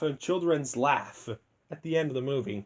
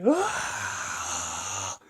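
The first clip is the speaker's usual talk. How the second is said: quiet mock scream; 9 semitones lower than usual. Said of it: "Mister Vile screams like".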